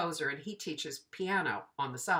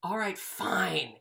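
slow, drawn-out mock giving in; acted resigned concession; reluctant agreement; slower than usual. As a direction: give in grudgingly, stretching the words.

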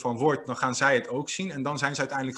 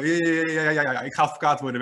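mock stutter; 2 semitones higher, faster than usual. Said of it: "helemaal stotterend".

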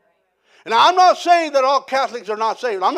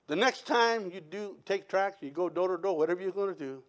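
soft confiding request; 5 semitones lower, 12 dB quieter than usual. Retold or imitated. Pastor's punchline request.

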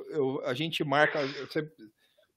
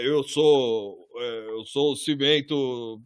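cement bag voice; 4 semitones lower, much slower than usual. Pretend. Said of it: "um saco de cimento roxo, assim, falando".

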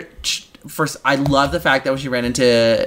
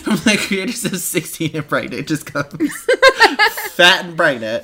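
laughing trailer voice; announcer parody cracking up; mock promo; 3 semitones higher than usual.

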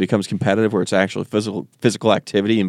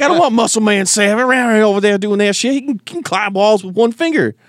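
annoyed whiny rant; 11 semitones higher than usual. Retold or imitated. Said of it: "I'd be like".

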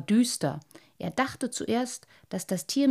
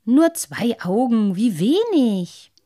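slow, pitying, trailing into a whisper; mocking fish; 3 semitones higher, 8 dB louder, slower than usual. Lamprey pities the boy's two eyes, mock whisper. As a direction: pity him slyly, drop to a whisper. Neunauge mocks the boy.

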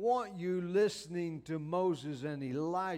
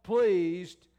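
slow solemn proclamation, rising louder on hear him; voice from the cloud; 2 semitones higher, 5 dB louder, slower than usual. Acted. Preacher voicing God again, slow and booming. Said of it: "notice what this voice said".

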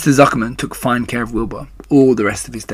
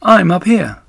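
high and slow, a tiny voice from above; small spider voice; 7 semitones higher, 5 dB louder than usual. Acted. Baby spider greeting the sad pig in a small voice. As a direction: greet him like a very small creature. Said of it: "he heard a small voice".

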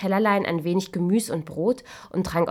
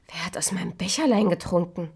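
whispered question. Acted. Seventh dwarf asking about his cup, whispered. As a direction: breathe it timidly.

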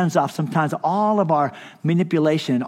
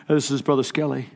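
a lightly lower, formal phone greeting; pastor voice; 3 semitones lower than usual. Retold or imitated. Pastor putting on his formal voice for a phone caller. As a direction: answer the phone like an official pastor. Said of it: "put my pastor voice on".

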